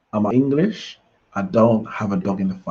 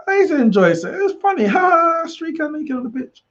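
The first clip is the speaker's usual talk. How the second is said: giggly. Real, not acted. Recalling streakers, giggling.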